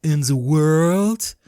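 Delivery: hammed-up awe with stretched words; gushing listeners. Ben imitating you lot praising his writing, gushing. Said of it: "this is you lot again".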